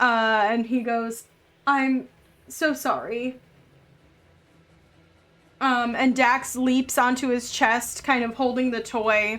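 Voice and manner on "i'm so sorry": sobbing through tears, crying with shaky voice. Voicing the rescued character apologizing: shaking and crying. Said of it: "he's shaking and crying".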